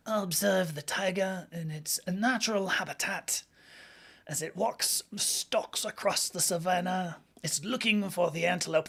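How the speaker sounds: hushed, slowed wildlife narrator voice; David Attenborough. Retold or imitated. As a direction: murmur it like a hushed nature documentary. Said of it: "David Attenborough".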